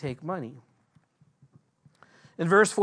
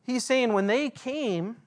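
usual speaking voice

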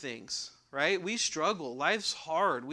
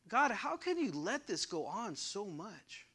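softer, incredulous appeal to God; pleading; 2 semitones higher, 5 dB quieter than usual. Acted. Believer asks God why this goes on, pleading. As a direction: ask it as a hushed, mild protest. Voicing a pained question to God.

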